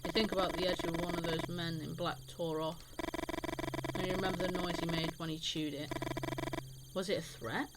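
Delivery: measured story-reading voice; game narration. A narrator's reading. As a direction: read the story text aloud, evenly. Reads game text aloud.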